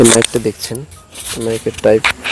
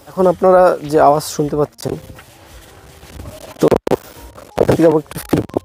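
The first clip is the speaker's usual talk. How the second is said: far from mic; 2 semitones lower than usual. Real, not acted. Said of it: "চলে যাচ্ছি কুড়ি মিটারের মতো দূরে".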